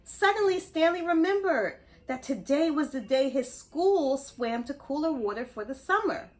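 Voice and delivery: bright, lively read-aloud voice; animated bedtime story narration; storybook reading. A narrator's reading. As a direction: read it to the kids with wonder.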